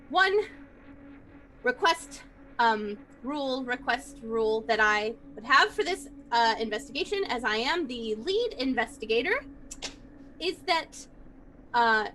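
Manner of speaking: standing tall, laying down a rule with authority; firm demand. Acted. Hazel, lead investigator, tells the party nobody opens books without her: firm, commanding. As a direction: draw yourself up and make your demand. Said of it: "draws herself up to her full five feet two inches and, attempts to look you all dead in the eye".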